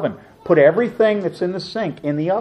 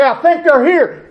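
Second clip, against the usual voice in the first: teasing fake alert; 10 semitones higher, 4 dB louder than usual. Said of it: "I'd go over and I'd say".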